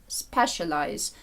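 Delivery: Specialize, slow, with SPE stressed; teacher's slow Specialize, weight on SPE; stress on first syllable. Shown as a demonstration. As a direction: say Specialize slowly, marking the opening syllable. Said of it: "стоїть рисочка перед наголошеним складом".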